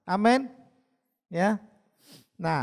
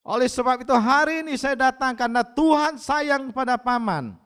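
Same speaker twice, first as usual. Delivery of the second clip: raised, higher preaching voice; emphatic preaching; 4 semitones higher, 5 dB louder than usual. Retold or imitated. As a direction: press each point home firmly to a listener. Preaches emphatically to his uncle. (berkhotbah tegas dengan suara meninggi)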